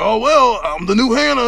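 hammed-up raspy character. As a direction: play someone stuck with a raspy voice. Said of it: "you have that raspy voice".

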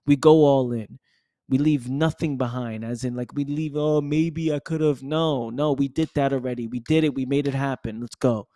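pumped-up, punchy self-encouragement; hyped mirror pep talk. Retold or imitated. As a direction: fire yourself up in the mirror. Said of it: "I look in the mirror and say".

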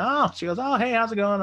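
high, loud mock-cheery hello; imitated girl's greeting.

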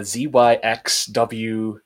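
alphabet recited in reverse, Z first; backwards speech. Shown as a demonstration. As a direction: say the letters backwards, one by one. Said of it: "people who can say that backwards".

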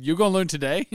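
hammed-up coach catchphrase; quoting a coach. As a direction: holler it like a movie coach. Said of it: "You said".

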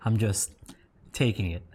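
speaking with a burning mouth; mouth burning from spicy food. Real, not acted. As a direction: tough it out through the spice. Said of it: "My mouth is burning".

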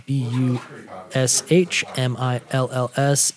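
letters spelled one by one, B U S H M I L L S; spelling it out. Shown as a demonstration. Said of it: "is it spelled like it sounds?".

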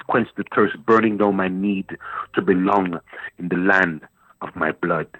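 spoken word poem reading. Acted. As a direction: read the poem with weight and longing. Reads his poem aloud.

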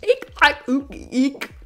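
high, loud gibberish of an alien language; alien tongue imitation. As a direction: mimic the woman speaking in alien tongues. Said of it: "No me sale".

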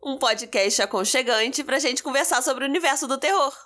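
stuffy blocked-nose voice; talking through a blocked nose. Real, not acted. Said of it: "hoje estou congestionada ... vai ter uma Cibele com voz anasalada".

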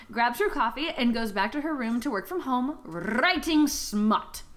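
measured, deliberate storyteller delivery; story recap narration. A narrator's reading. Host recapping the book for co-hosts, measured narration. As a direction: recount the plot, lingering on key phrases. Retells the book's plot.

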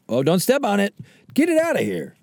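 hammed-up nagging about the Roomba; mock fussy voice. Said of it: "Why does this thing".

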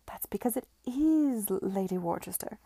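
hushed and awed, barely voiced; reverent whisper. A narrator's reading. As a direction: breathe the name like a secret. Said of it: "said Diana reverently".

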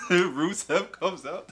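loud, high and slow with excitement; excited. Real, not acted. Telling his cohost about the surprise return, loud and excited. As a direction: hype it up, stretching the words. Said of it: "I saw, I saw clips".

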